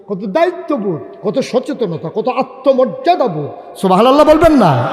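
rising preacher's call, swelling to the crowd; rousing preaching. Real, not acted. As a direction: work the congregation up to a response.

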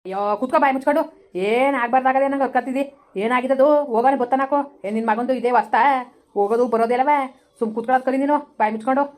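irritated scolding in a village quarrel. Acted. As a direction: tell her to shut up and sit down. Quarrel, telling her to shut up.

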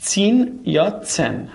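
zehn said slowly twice, two different pronunciations; two ways of zehn. Shown as a demonstration. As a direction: give both versions of zehn, slowly. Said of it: "هر دو درسته". (دو تلفظ کشیدهٔ zehn)

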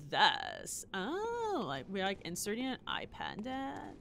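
put-on Valley Girl voice. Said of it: "I can keep talking like this now".

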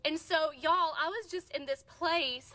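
usual speaking voice

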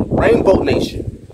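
airy, high, slow mock of the slogan; sarcastic echo. Real, not acted. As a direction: sneer the phrase back, breathy and high. Mocking the slogan rainbow nation.

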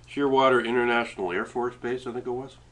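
talking with mouth full; words round a bite of food. Real, not acted. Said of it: "Never talk with your mouth full".

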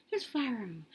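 hushed whisper of alarm. Retold or imitated. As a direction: breathe it out, no voice. Gun clicks, retelling sudden fright.

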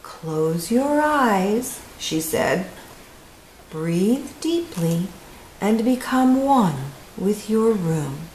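slow, calm relaxation guide; slow soothing therapist. Acted. Therapist calming Camilla, slow and soothing. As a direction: lead her gently into a trance.

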